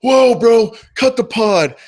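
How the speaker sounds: high, loud mock yell; mock listener shout. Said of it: "and you go".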